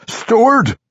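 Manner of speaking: loud, high dwarf cry; great exuberance. A narrator's reading. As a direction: burst out exuberantly. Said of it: "said with great exuberance".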